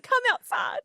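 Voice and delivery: high retold call through laughter; laughing mock shout. Retelling being called out to see the prank, laughing shout. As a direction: call out shrilly while cracking up.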